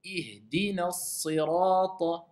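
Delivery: Ihdina sirata slowed, with a pure i in Ihdina; model recitation. Shown as a demonstration. The teacher gives the example Ihdina with a true i. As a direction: say Ihdina slowly, with a clean kasra.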